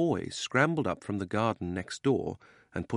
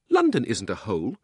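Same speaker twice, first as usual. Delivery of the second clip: loud indignant objection; 2 semitones higher, 6 dB louder than usual. Acted. Polly defends London to the boy, indignant. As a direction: object loudly, mildly affronted. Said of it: "said Polly indignantly".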